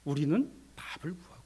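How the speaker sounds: usual speaking voice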